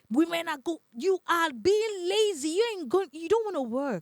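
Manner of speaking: high, mocking whine of a nagging husband; a mock husband griping that his wife is lazy; mocking complaining men. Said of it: "that men be like".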